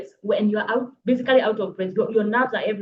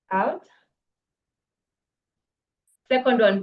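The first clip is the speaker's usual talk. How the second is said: guided breathing count. Shown as a demonstration. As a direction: lead the audience through three breaths. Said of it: "Take some three deep breaths".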